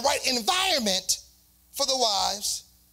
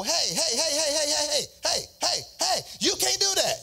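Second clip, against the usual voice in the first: protesting; 4 semitones higher than usual. Acted. Acted objection to robbing a bank.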